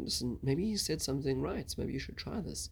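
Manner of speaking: respectful. Retold or imitated. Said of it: "in a respectful tone".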